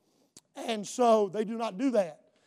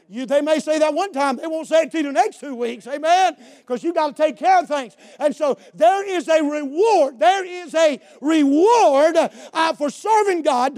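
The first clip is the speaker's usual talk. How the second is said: raised sermon voice; fervent preaching; 6 semitones higher, 6 dB louder than usual. Real, not acted. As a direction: preach with rising emphasis and higher pitch. Preaches at full force.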